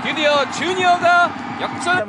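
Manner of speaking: high, loud shout; excited goal call. Real, not acted. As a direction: yell the go-ahead goal. Go-ahead goal called.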